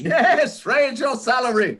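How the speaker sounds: high and beaming, hitting raise; delighted insistence. Acted. Scrooge insists to Bob about the raise, high and delighted. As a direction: insist on the good news gleefully.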